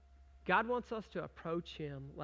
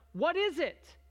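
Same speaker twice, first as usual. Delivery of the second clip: a touch of a baffled crowd, pitched up; puzzled Israelites; 8 semitones higher, 7 dB louder, slower than usual. Retold or imitated. Israelites puzzling over strange flakes, mildly puzzled. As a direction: ask it like confused wanderers. Israelites asking about manna.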